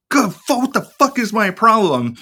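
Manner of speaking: high, exasperated mock rant; frustrated outburst. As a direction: blow up at yourself, half in jest. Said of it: "I get fucking mad and I'm like".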